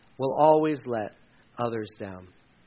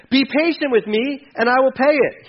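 pleading; 6 semitones higher, 5 dB louder than usual. Acted. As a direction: plead for a little more time. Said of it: "he pleaded".

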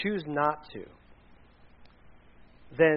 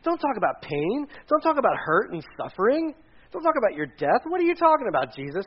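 higher-pitched, insistent protest; pleading reproach; 5 semitones higher than usual. Acted. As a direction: remonstrate with him, each plea rising. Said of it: "pulling him aside and saying".

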